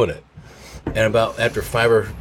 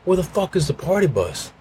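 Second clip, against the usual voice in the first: higher mock drunken shout; drunk yelling; 9 semitones higher than usual. Drunk friend demanding the party bus, mock drunken yell. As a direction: bellow like a wasted concert-goer. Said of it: "to be yelling".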